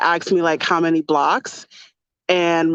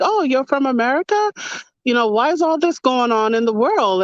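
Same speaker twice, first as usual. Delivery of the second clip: higher, eager questioning; curious locals; 6 semitones higher than usual. Retold or imitated. Italians quizzing an American visitor, higher and eager. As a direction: pepper her with questions. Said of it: "people are like".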